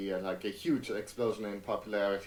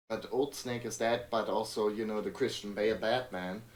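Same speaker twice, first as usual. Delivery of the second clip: usual speaking voice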